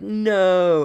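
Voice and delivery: high, loud hammed-up cry of denial; mock anguished no. Refusing his villain father, a hammed-up loud no. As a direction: overplay the denial. The speaker parodies Luke's cry.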